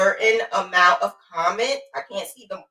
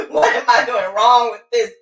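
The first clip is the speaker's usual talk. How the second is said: laughing through it. Pretend. Voicing confused viewer, laughing.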